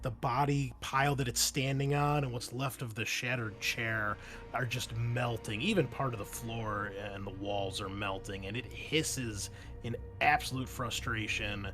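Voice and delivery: slow, drawn-out action narration; measured tabletop storytelling; game master scene-setting. Acted. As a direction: set the scene deliberately, lingering on key words.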